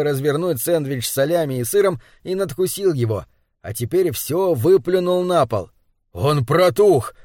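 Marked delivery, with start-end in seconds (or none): 6.2-7.1 mildly raised, indignant exclamation; indignant outcry. Acted. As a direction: cry out in outrage, held back. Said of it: "возмущённый вопль Руди Уэрвика". (возмущённый возглас)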